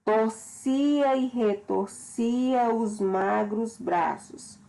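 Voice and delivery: slow, measured recital of the verse; poem reading. Acted. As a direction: read the stanza slowly like a poem. Reads the poem stanza aloud. (leitura lenta e expressiva de poema)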